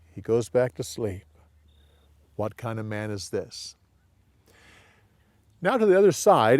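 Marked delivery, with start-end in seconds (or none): 2.4-3.8 soft, hushed wonder; hushed awe. Shown as a demonstration. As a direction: breathe it out, amazed. Disciples' awed question, hushed.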